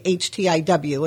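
with spelled backwards, H T I W; backwards speech. Shown as a demonstration. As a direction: spell the word in reverse order. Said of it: "See, I say W I T H".

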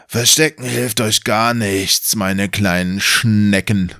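slow, mocking villain voice, barely changed; lightly voiced mocking wizard. Game master taunts the heroes as a smug wizard, slow and mocking.

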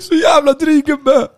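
high, slow, loud drawn-out disgust; loud, drawn-out outrage at the rude bouncer; exasperated. Real, not acted. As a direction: stretch it out, outraged and fed up. Exasperated outburst about the bouncer.

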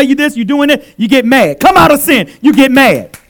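loud, pounding repeated refrain; preaching loudly. Real, not acted. Preacher to congregation, loud building refrain. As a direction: hammer each you get mad home.

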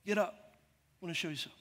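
hushed, quick and low, barely there; very soft. Retold or imitated. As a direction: imitate a tiny inner voice. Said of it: "it was so soft just in my head".

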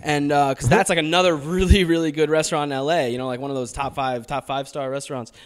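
speaking in a put-on American accent; an Australian doing an American accent. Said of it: "You did a hell of a job in that American accent".

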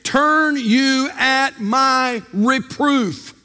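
slow, solemn scripture read; voice of God. Retold or imitated. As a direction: lay out each word as God's own rebuke. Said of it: "God says it like this".

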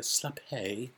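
"slap hey" drawn out as two parts; fancy, stretched "hey" on "slap hey"; fancy pronunciation. Acted. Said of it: "when I'm feeling fancy".

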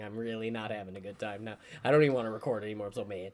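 low, soft mock sulk; bringing it down. Co-host ramped up by sauce thing, deflated mock anger. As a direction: drop low and quiet, feigning hurt. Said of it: "let me bring it down".

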